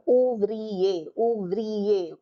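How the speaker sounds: ouvrier as ou-vri-er, falling at the end; French ouvrier, each syllable clear; three syllables. Shown as a demonstration. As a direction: sound out ouvrier in three beats. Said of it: "Three syllables".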